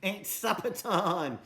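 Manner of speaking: slow, high, gleeful cackle; cackling. Acted. Billy William throwing burgers at Polly, cackling. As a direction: gloat as you throw. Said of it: "he cackled".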